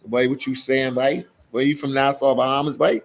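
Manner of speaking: put-on light Bahamian accent, teasing; a quick playful Bahamian accent. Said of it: "that's that Bahamian accent I just did".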